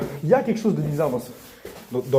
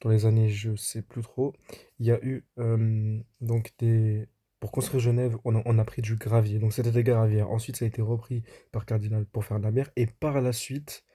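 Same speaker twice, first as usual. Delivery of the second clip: voice-over narration. Acted. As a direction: tell it like a documentary voice-over. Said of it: "on se retrouve pour la voix off".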